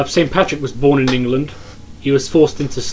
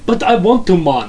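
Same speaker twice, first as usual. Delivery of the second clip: loud, high, hammed-up Irish accent; mock Irish accent; 5 semitones higher, 6 dB louder than usual. Co-host begging to do Irish accents, hammed-up Irish brogue. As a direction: protest in a put-on Irish accent. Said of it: "whole episode in Irish accents".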